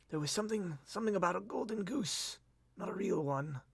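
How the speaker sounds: soft, high, uncertain recollection; weakly grasp at a hazy memory; cracked, broken voice. Acted. Dazed lord recalling a clue, cracked voice. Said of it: "cracked and broken".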